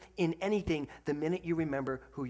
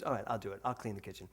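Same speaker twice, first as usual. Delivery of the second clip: sweet daughter; 6 semitones lower, 6 dB quieter, faster than usual. Retold or imitated. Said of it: "She goes".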